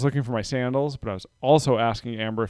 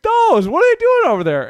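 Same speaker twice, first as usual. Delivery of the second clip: put-on high, puzzled toddler question, louder; higher, louder child voice asking in wonder; little girl's voice; 8 dB louder than usual. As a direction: play a curious three-year-old. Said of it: "she's like".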